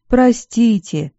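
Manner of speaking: sorry, pushed out through tears; sobbed. A narrator's reading. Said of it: "всхлипнула Тильда".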